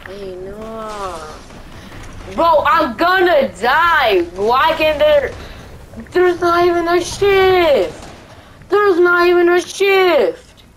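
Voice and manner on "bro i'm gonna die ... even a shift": panicking gamer. Real, not acted. About to die in fight.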